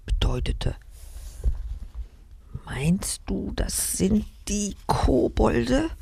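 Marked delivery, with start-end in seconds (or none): 2.7-5.9 scared question. Acted. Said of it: "fragte sie ängstlich".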